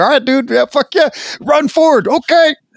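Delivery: high, loud, eager, pumped-up hyped voice.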